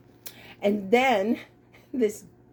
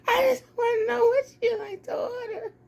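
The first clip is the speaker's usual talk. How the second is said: stifled laughter; 4 semitones higher than usual. Real, not acted. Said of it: "trying not to bust out".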